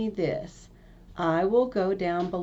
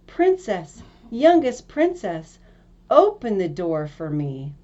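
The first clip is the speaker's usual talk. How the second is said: frog crying out; 4 dB louder than usual. Acted. Frog at the door reminding the princess, loud calling. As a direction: insist through the door. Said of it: "it knocked a second time and cried".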